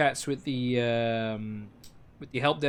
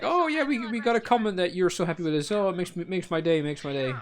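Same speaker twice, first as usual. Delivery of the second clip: delighted driver; 3 semitones higher than usual. Retold or imitated.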